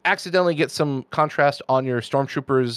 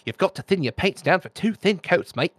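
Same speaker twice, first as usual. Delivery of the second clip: imitating a British painter, higher-pitched accent; 5 semitones higher than usual. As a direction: put on a jaunty British accent. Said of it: "you know, British accent".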